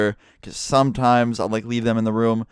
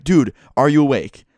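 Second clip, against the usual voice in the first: mock yell over the phone, a bit louder; retold screaming; 3 semitones higher, 5 dB louder than usual. Friend phoning at dawn, mildly mock-yelling "are you awake". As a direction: friend calling out, half-playing the shout. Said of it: "he answers, like, screaming".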